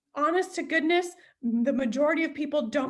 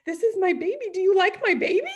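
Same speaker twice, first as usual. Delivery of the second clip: higher, louder, laughing pride; proud and giddy; 5 semitones higher, 4 dB louder, faster than usual. Retold or imitated. Showing friends her farm, giddy and laughing. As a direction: gush over it like a proud parent.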